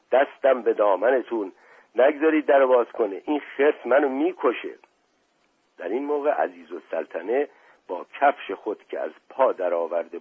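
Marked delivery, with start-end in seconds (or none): 0.1-4.7 mildly raised, frightened outcry; pleading yell. Acted. Beaten man begs guests to keep door shut, pleading yell. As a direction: cry out in rising desperation. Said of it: "نعرهٔ دوستعلی خان بلند شد".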